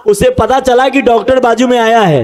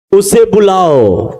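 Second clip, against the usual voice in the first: Jesus commanding calmly; 3 semitones lower, slower than usual. Acted. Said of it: "और कहा".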